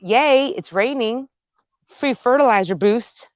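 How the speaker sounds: high, loud little hooray; acted cheer. Gardener weighing a rainy day, high mock-cheerful yay. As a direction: jump up in pitch on the yay. Acts out glad side of rain.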